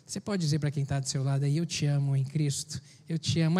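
muffled through a face mask. Real, not acted. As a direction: speak with a mask over the mouth. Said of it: "é difícil demais falar com máscara".

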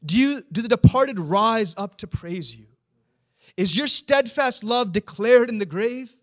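preacher voicing the psalmist's sarcastic questions; sarcastic challenge. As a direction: needle God with pointed questions. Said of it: "He's almost speaking sarcastically".

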